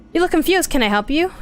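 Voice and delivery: lightly put-on country accent. Townsperson offering help to a stranger, country accent. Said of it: "like, a country accent".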